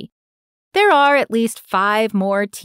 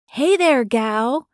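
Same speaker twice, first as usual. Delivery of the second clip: calling out; 5 semitones higher, slower than usual. Acted. Old man calls out to her.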